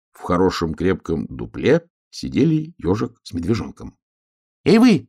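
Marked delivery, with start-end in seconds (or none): 4.6-5.1 very high loud shout; high shout across the sky; hedgehog shouting. A narrator's reading. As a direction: yell up at them. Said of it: "закричал ежик".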